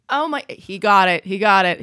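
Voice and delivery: loud, delighted announcement; excited. Real, not acted. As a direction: announce his win with glee. Guess revealed correct.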